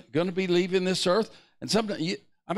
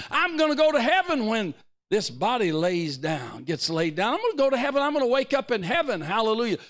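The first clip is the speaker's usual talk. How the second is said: impassioned preaching; 7 semitones higher than usual. Real, not acted. Preaches on going to heaven.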